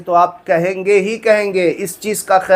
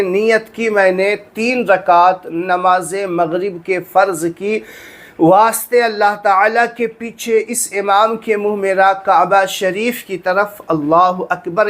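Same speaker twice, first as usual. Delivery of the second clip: measured niyyah recitation. Shown as a demonstration. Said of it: "अगर ज़बान से आप करना चाहें तो इस तरीक़े से कहें".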